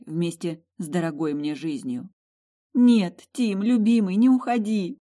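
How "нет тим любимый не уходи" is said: high, loud tearful cry; crying aloud. Acted. Heroine weeping over dying husband, high loud tearful cry. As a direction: wail it through tears. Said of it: "проплакала я в голос".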